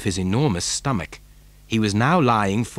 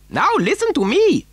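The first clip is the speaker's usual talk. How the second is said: high, excitable eccentric's voice; Mister Wonka; 3 dB louder than usual. A narrator's reading. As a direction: give an instruction in a high, odd voice. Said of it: "said Mister Wonka".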